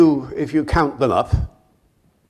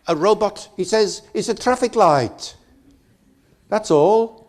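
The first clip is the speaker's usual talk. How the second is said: driver explaining; 8 semitones higher than usual. Retold or imitated.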